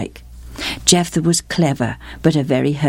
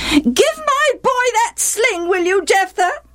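demanding stepmother. A narrator's reading. Stepmother taking her boy's side, sharply demanding. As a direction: order him about as a cross stepmother.

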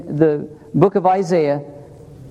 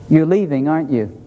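blunt quote; 5 semitones lower than usual. Retold or imitated. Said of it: "That's pretty straightforward".

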